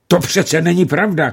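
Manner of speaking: high, loud indignant cry; shouting bridegroom. A narrator's reading. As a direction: burst out denying it. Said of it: "křičel ženich".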